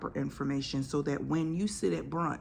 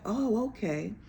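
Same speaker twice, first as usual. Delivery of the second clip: mock realization; 6 semitones higher than usual. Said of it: "people be like".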